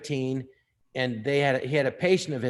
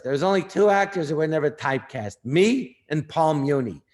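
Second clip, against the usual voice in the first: imitating Ned Glass boasting; 4 dB louder than usual.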